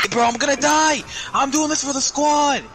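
high laughing shout; panicking gamer. Real, not acted. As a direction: yell it like going down. Dying in storm, laughing shout.

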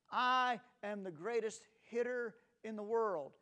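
loud, proud boasting cry; boastful shout. Retold or imitated. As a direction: shout it like a cocky kid at bat. Boy shouts boast in story.

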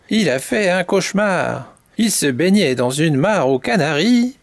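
animated, expressive storyteller; children's story narration. A narrator's reading. Mamie Poule tells chicks the canary's tale, lively narration. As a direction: tell it vividly to little listeners.

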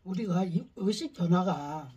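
talking between bites; eating fruit. Real, not acted. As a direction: fruit held at lips. Seen 2: left person holds fruit at lips, mouth moving; speaker uncertain.

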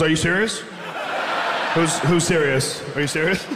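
mock stunned disbelief; incredulous. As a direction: say it like you can't believe what you heard. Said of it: "someone goes".

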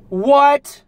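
very high, loud disbelieving yelp; shocked squeak. Real, not acted. Driver seeing the house is for sale, shocked yelp.

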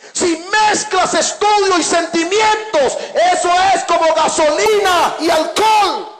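high-pitched, emphatic sermon delivery; impassioned preaching. Real, not acted. Preacher warning the congregation about adolescence, impassioned preaching. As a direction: drive each phrase home to the congregation.

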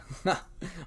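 brief, light chuckle; a single small "ha" of amusement; short acted laugh. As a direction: toss in a quick chuckle. Narrator voices character's amused reaction.

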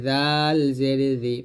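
জাল জের জি with tongue tip at the upper teeth, light; thin dhal. Shown as a demonstration. Teacher models dhal for learners, thin dental জাল. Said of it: "পাতলা করে".

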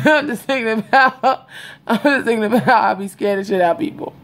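giggling through words; can't stop laughing. Real, not acted. Laughing at herself.

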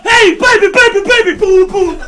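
loud, brash party yell; frat bro. Pretend. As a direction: hype it up like a bro. Loud goal celebration.

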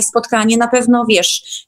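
ordinary delivery

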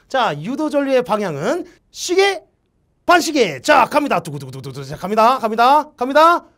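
high, loud countdown to a reveal; building excitement. Real, not acted.

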